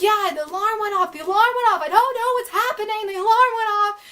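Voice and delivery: high-pitched, mock-panicked babble; panicky retelling. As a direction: act out frantic explaining through a door. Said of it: "I'm all panicky".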